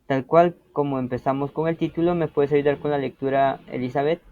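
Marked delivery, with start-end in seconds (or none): none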